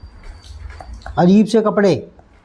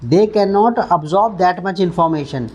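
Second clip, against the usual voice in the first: slow, punch cannot; slow model sentence; much slower than usual. Shown as a demonstration. Teacher modelling the sentence slowly, stressing cannot. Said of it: "teacher models sentence slowly".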